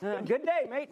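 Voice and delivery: laughing, bad Australian accent; a botched Aussie greeting, laughing; mock Australian accent. Reporter slipping into a wrong Australian accent, laughing. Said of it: "No, that's wrong".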